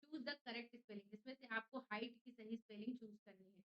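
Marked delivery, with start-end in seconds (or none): 0.0-1.1 slow, deliberate reading of the question. Shown as a demonstration. Teacher reading the quiz question to students, slow. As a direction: read the instruction slowly to the class. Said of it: "teacher reads the question".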